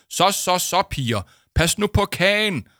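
flustered, loud and high-pitched pleading; nervous. Acted. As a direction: try anxiously to calm the girls. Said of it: "brummede Paul nervøst".

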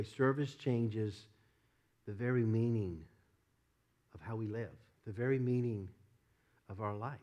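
"Service changes" drawn out slowly, "the very meaning" stressed each time; slow emphatic restatement. Shown as a demonstration. Preacher restating to congregation, slow and emphatic. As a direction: lean on "very" both times. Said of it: "Let me just say it this way".

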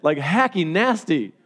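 slowed, amused words with a laugh in them; slow, giggling disgust. Real, not acted. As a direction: laugh at how gross it is. Laughing at the spit story.

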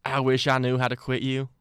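mock Western cowboy accent. Shown as a demonstration. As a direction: deliver the movie line in a Western cowboy accent. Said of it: "I'll say it in the accent".

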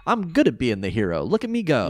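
lightly acted self-satisfied hero; mock-heroic bravado. Podcaster voices Joey casting himself as hero, mock-heroic bravado. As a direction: show off like a proud hero, rising at the end. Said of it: "says it in a way that's like".

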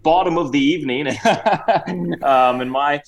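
high, put-on Cockney and Australian voice; Cockney-Australian mix. Host introduces Reginald to the show, in a hammed-up Cockney-Australian accent. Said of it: "I've got a bit of a Cockney accent and Australian thing mixing".

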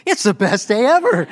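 laughing through the words, pitch up; can't hold back the giggle while answering. Retold or imitated. Greeting the sales guy at the store, laughing.

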